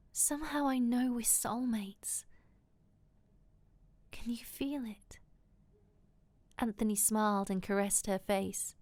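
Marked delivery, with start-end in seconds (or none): 0.1-5.2 soft, intimate half-whisper. A narrator's reading. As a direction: confide it softly to a lover. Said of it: "Melissa whispered".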